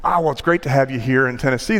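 quick, lightly voiced Tennessee local; a hint of chatty Tennessee twang; Tennessee accent. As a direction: welcome them in a Tennessee accent. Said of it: "in this really fine Tennessee accent".

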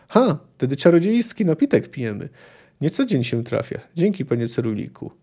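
reading a novel aloud with lightly voiced characters; story narration. A narrator's reading. Lecturer reading a Witcher passage to the class, story narration. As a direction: tell the tavern scene like a storyteller.

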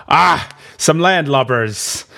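slow gloating pirate; pirate sneer. Retold or imitated. Pirate finding the cowering pair, slow gloating pirate. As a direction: savour the word like a sea dog. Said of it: "he's like".

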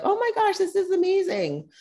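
very high squealing gush; hammed-up squealing delight; mock gushing fan. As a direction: parody an avocado-toast fan in raptures. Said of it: "they're like".

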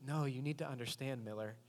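a hint of a grim cynic; lightly voiced jaded detective; gruff detective. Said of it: "And he says".

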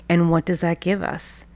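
hushed whispered question. Real, not acted. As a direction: lean in and whisper it. Intimate coaching question to listener.

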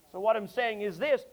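ordinary talk

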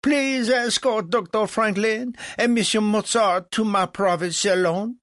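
high, loud French command; barked order. A narrator's reading. Legras orders the valet to escort guests, barking. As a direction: call out instructions to a servant. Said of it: "barked to the young valet".

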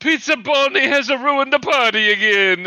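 words squeezed out through laughter; cracking up mid-sentence; laughing. Real, not acted. Laughing at the pizza joke.

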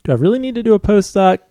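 reluctant, doubtful student. Retold or imitated. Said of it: "inherent in that question".

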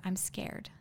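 small, hushed admission; retold near-whisper. Woman retelling her only words to the man screaming at her, hushed. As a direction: drop the volume, barely getting it out. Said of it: "it was really whispered".

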